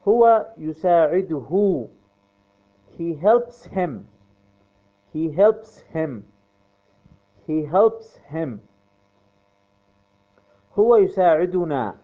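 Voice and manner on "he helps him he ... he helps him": very slow, word by word; slow drilling. Shown as a demonstration. Teacher drilling students on the verb, very slow and clear. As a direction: drill it so students can repeat. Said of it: "teacher drills sentence for class".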